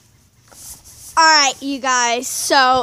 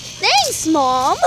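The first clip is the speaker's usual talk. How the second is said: sarcastic thanks; 5 dB louder than usual. Retold or imitated. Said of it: "I was like".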